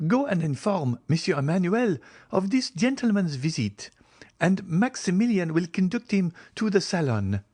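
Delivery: high-pitched mistress's voice; Julie instructing servant. A narrator's reading. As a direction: give polite orders in a high, feminine voice. Julie gives servant orders.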